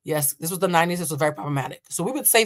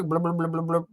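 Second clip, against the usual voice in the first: stomach bubbling noise. Shown as a demonstration. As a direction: imitate a hungry stomach. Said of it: "that bubble noise".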